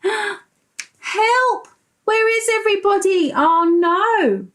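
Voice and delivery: high, fast mock panic with a gasp. Boy left at the museum cries for help, high mock panic. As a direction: gasp and cry out like a lost child.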